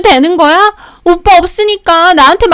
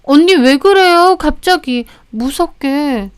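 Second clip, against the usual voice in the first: higher-pitched, taken-aback sister-in-law; flustered; 5 semitones higher, slower than usual. Acted. Flustered sister-in-law to the wife who snapped at her, taken aback. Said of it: "당황한 게 눈에 보였습니다".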